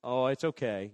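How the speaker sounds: a coddling comforter, lightly mocked; mock whiner. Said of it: "there'll be people there who are gonna".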